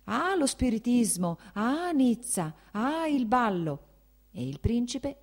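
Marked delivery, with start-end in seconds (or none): 0.1-3.8 high, slow, affected mimicry; mocking his wife. The prince mimicking his wife to mock her, mocking. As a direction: ham up her simpering tone. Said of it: "rifare il verso a sua moglie".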